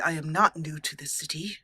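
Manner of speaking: words pushed through clenched teeth; through gritted teeth. Acted. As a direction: tight jaw, teeth clenched. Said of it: "through gritted teeth".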